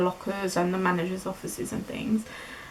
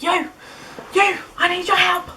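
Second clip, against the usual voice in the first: 1 protective mother; 9 semitones higher than usual. Retold or imitated. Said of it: "like a protective mother".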